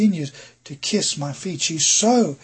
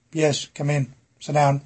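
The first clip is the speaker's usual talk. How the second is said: unwelcoming; 2 semitones lower than usual. Shown as a demonstration. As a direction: let them in like you wish they hadn't come. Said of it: "if they're not a welcome guest, you'd go".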